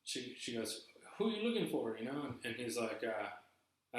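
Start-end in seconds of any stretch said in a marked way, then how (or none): 1.2-2.0 put-on high-pitched, botched Asian accent; bad Asian accent. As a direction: imitate a cleaning lady with a badly done Asian accent. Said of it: "I guess that was, like, an Asian. That was a bad, uh, accent".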